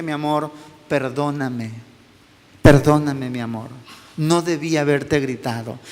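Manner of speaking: low, soft retold apology; tender apology. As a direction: gently ask a child's forgiveness, voice dropped low. Father retells apology to daughter. (disculpa tierna en voz baja)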